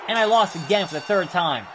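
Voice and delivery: shouted in frustration; frustrated shout. Real, not acted. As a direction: yell it out, fed up. Loses match, repeats louder.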